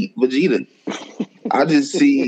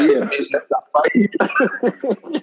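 slow mocking drawl; 5 semitones higher, much slower than usual.

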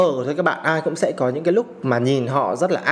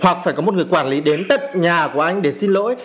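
angry; 3 semitones higher than usual. Real, not acted. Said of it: "cái cảm xúc của mình nó rất là dữ dội".

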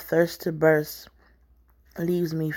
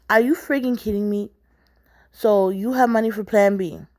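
angry confrontation; 3 semitones higher, 5 dB louder than usual. Acted. Acted quarrel with lover.

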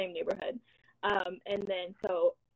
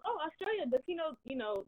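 mom's voice; 7 semitones higher than usual. Retold or imitated. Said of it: "She goes".

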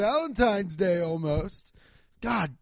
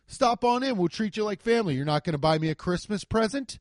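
mock ad voice; 5 dB louder than usual. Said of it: "And then he goes".

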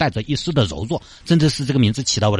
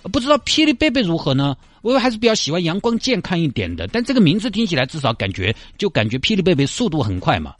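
coy high voice; 10 semitones higher than usual. Acted. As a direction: play a bashful eager old man. Guo voiced chatting in group.

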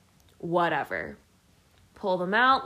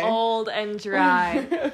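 laughing; 4 dB louder, much slower than usual. Real, not acted. Laughing repeat of her line.

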